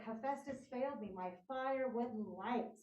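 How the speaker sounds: "Hephaestus failed me" with the closing words drawn out slowly; a touch of slow despair; slowed lament. Retold or imitated. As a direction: let it sink slowly, a prophet let down. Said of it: "And he's like".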